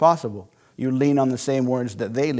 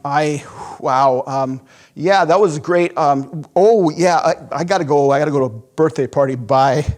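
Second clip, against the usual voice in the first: louder, stammering hurry to leave; flustered customer; 4 dB louder than usual. Retold or imitated. Customer making excuses to escape the salesman, flustered. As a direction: bluff an excuse and get out. Customer fleeing after seeing price.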